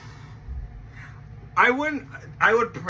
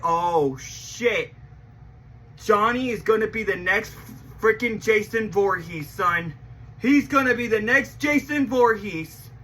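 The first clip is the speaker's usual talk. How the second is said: hyped exclaim. Retold or imitated. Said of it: "you're like".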